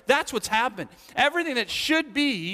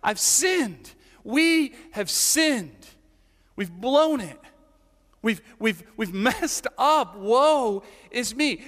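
humble confession; 2 semitones higher, slower than usual. Pretend. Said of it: "It's humility. It's like".

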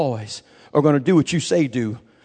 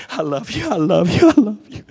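anxious prayer; 6 semitones higher than usual. Retold or imitated. Boy on his knees praying in the dark, anxious pleading. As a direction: pray it nervously, pitched up.

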